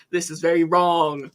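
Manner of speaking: imitating an Italian accent, lightly scolding; mock papal scolding with a hint of Italian accent; Mario-like Italian accent. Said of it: "in, like, a Mario accent".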